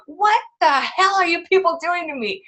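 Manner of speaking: voicing screaming baby. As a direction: play the furious newborn, high and squeaky. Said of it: "She's just screaming, like".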